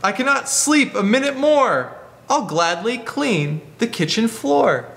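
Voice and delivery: lightly voiced porcupine. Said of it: "And the porcupine says".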